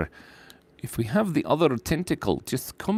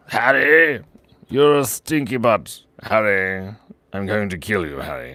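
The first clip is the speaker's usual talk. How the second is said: Voldemort; 4 dB louder than usual. Acted. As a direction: stretch out each taunt like a mock dark lord. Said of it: "do the Voldemort voice".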